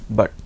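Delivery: but said "baht", with an open A; German-read but with an "ah" vowel; German A sound. Shown as a demonstration. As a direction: say but as if spelt bat in German. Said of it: "A is A sound".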